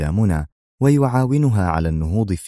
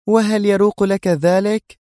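higher, slow incredulous protest; disapproving cry; 14 semitones higher, 3 dB louder than usual. Acted. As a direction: exclaim in disapproval. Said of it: "هتفت في استنكار". (باستنكار)

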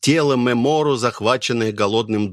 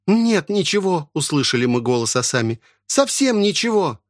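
higher pleading cry; desperate daughter-in-law; 6 semitones higher than usual. Acted. Асами telling the old woman there is nothing left, pleading.

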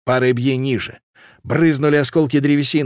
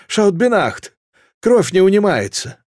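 higher, urgent frightened cry; panicked call; 6 semitones higher than usual. Acted. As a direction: call out in panic over the wound. Panicked cook calling out.

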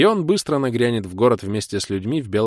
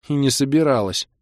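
offended Kira; 5 semitones higher than usual. Acted. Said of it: "обиделась Кира".

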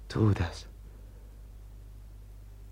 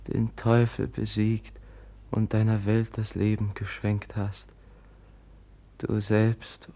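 prayer. Acted. Brother prays for the dead woman by candlelight. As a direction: pray over the dead, reverently. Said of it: "ich will beten".

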